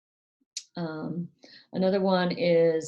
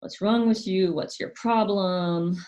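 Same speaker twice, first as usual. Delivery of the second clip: put-on louder, a bit higher, snapping at the child; contemptuous parent; 4 semitones higher, 4 dB louder than usual. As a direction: throw scorn at a child. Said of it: "a real attitude of just".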